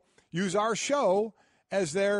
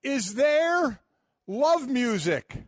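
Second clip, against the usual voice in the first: suggestive; 6 semitones higher, 4 dB louder, much slower than usual. Real, not acted. Playful suggestive punchline.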